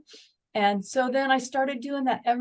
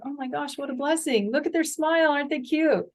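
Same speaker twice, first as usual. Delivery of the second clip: gushing over grandkids; 5 semitones higher than usual. Retold or imitated.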